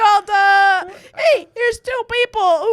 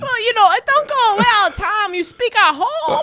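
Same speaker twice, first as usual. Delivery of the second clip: put-on Israeli-tinged accent; 4 semitones higher, faster than usual. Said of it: "You sound like an Israeli".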